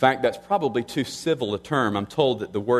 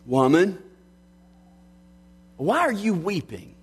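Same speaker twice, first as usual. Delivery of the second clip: lightly acted question, lifting high on "are"; gentle quoted question with a high arc; 5 semitones higher than usual. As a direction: ask it in a higher, searching voice. Quotes the risen Christ's question.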